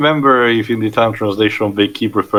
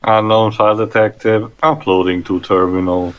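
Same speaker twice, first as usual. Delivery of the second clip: beep-boop robot voice; robot booting up. Acted. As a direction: read it like a computer system check. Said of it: "boop, beep".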